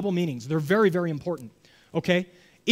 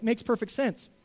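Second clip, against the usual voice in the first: sarcastic; 3 semitones higher, 4 dB quieter than usual. Retold or imitated. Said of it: "Does not make any sense".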